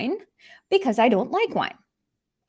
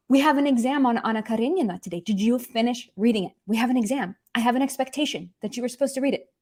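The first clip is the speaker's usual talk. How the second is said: urgent worry; faster than usual. Pretend. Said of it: "this sentence makes sense".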